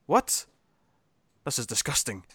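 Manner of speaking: high, loud outraged Ferengi squawk. Retold or imitated. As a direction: squawk it like a scandalised trader. Ferengi outraged at free gift.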